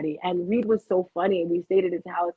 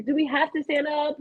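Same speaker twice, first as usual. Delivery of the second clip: mildly protesting, higher-pitched question; retold reluctance; 5 semitones higher than usual. Mother answering daughter's order to stand, reluctant. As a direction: drag your feet with a mock complaint. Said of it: "'cause I didn't wanna move".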